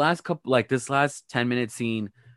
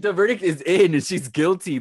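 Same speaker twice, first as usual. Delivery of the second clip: higher voice through laughter; laughing; 4 semitones higher than usual. Real, not acted. Declaring Erica guilty to her cohost, laughing. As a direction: deliver the verdict while laughing.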